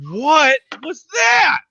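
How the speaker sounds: high, slow crying shout; outraged cry. Real, not acted. Fan crying out at the ref's call, outraged and slow. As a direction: drag it out in pained disbelief.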